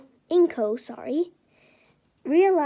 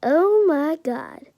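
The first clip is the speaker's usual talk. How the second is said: amazed; 5 semitones higher, 4 dB louder than usual. Acted. Izuku realizes.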